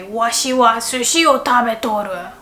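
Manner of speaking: lightly voiced old man; a hint of an old grandpa. Shown as a demonstration. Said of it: "they would say".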